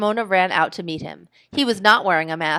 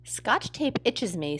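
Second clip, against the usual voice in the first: slow, softer glum voice; glum mumble; 2 semitones higher, 5 dB quieter, slower than usual. Acted. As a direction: mumble it unhappily. Glum boy complains.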